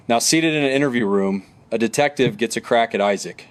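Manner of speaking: steady true-crime narrator voice; documentary narration. Acted. Narrator guiding viewers through the arrest, documentary narration. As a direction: narrate the case evenly for viewers.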